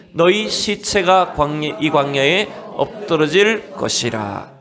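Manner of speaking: slow, weighty reading of 여호와's words; solemn scripture reading. Acted. Pastor reads God's rebuke to the congregation, slow and solemn. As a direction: read it like a stern decree from God.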